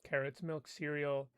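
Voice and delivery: flat list read, every item the same; monotone. Shown as a demonstration. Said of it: "you can read it in a monotone".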